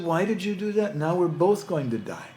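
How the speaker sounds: high, dismayed cry of betrayal; a high, shocked wail at being stung; panicked camel. Acted. Stung camel cries out to the scorpion, high and dismayed. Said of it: "And the camel said".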